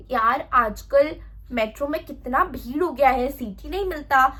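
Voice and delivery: slow, drawn-out dramatic complaint. Shown as a demonstration. Wrong way to open small talk on the metro, dramatic. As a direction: overplay the complaint, stretching it out. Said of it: "ऐसे dramatic वे में नहीं बोलना है".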